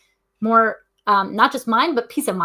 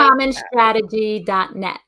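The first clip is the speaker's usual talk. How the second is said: slow, louder, word-by-word web address; slowed-down repeat; 5 dB louder than usual. Shown as a demonstration. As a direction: spell it out slowly for the listener. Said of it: "Can you say that slower?".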